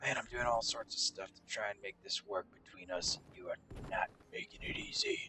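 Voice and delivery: eerie, creepy, hushed whispered voice. Speaking to Cage in the game, creepy voice. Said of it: "That was a creepy voice".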